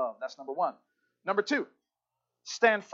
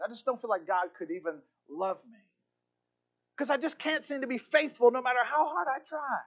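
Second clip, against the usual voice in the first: higher-pitched, exasperated confession of failure; discouraged; 6 semitones higher, faster than usual. Acted. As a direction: act out a discouraged disciple pouring out his failings. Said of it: "He was so discouraged".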